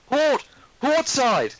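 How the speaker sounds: high, loud lookout call; shouted directions. Acted. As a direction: bellow the direction across the deck. Deckhand pointing, calling out.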